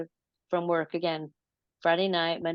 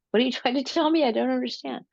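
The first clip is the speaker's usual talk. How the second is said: retold puzzled plea; 7 semitones higher, faster than usual. Retold plea to the creatures, laughing.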